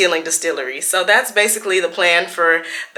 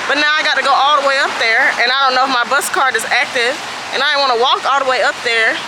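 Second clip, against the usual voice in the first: frustrated rant; 4 semitones higher than usual. Real, not acted. Frustrated rant about wrong info.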